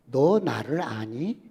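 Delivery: slow, lightly voiced divine question; a hint of God asking slowly; slow, gentle voice of God; God's voice. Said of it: "하나님께서 물었습니다".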